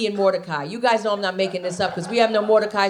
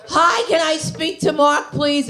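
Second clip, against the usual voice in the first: higher, slow, sweet phone voice; polite caller; 6 semitones higher, 3 dB louder, slower than usual. Retold or imitated. Comic caller asking for Mark on Sunday morning, higher sweet voice.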